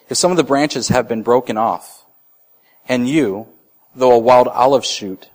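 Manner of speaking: scripture reading. Acted. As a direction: read the verse out with weight to the congregation.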